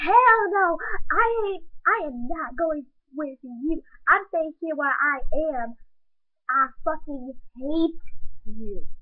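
loud, heated growl into the phone; angry growl. Acted. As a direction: spit it at him in fury. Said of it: "I growled into the phone".

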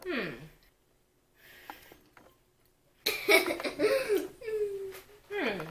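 chewing while laughing; humming through food; mouth full. Real, not acted. Seen 3: Woman chews with closed lips, holding bitten burrito, after earlier bite.

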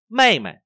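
mê loud and high, mày brushed past; light mày after stressed mê. Shown as a demonstration. Teacher models the neutral tone, mày light. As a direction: punch mê, drop mày away lightly. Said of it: "đọc là nhẹ nhàng lướt qua".

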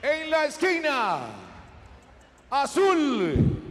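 ring announcer. Real, not acted. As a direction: announce the fighters with swelling hype. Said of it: "our veteran ring announcer".

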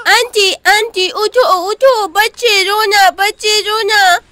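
put-on a little boy tugging his aunt awake; toddler calling. (तोतली आवाज़ में धीरे पुकारना)

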